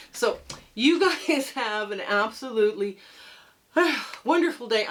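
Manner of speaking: breathless from struggling with a quilt; puffing between words; out of breath. Real, not acted. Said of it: "I'm out of breath already".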